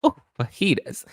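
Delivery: hammed-up wacky college girl; imitating wacky friend. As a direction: croon it like a quirky college friend. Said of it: "She'd be like".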